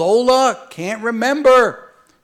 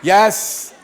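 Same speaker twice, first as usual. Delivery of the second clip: laughing; 4 semitones higher, 5 dB louder than usual. Real, not acted. Laughing joke with audience.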